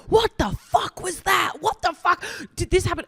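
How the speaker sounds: disbelieving what just happened, voice shooting high; high, stunned what the fuck; incredulous disbelief. Retold or imitated. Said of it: "we're like".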